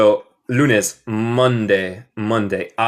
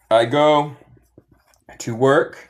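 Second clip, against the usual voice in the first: whisper; 2 semitones higher, slower than usual. Shown as a demonstration. Whispered phrase in lesson.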